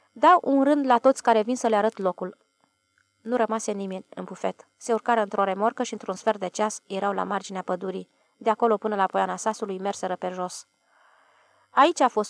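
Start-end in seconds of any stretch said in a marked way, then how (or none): 0.1-2.4 measured and deliberate; slowly. Acted. Ilie offers a round to everyone who comes, slow and deliberate. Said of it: "apoi spuse rar". 11.7-12.3 proud and a bit louder; proudly. Acted. Ilie shows the villagers the burnt spot, proud. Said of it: "spuse mândru Ilie Pop".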